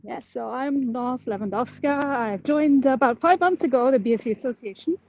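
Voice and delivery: winded from walking uphill; out of breath. Real, not acted. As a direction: speak between breaths after a climb. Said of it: "sorry, I'm out of breath".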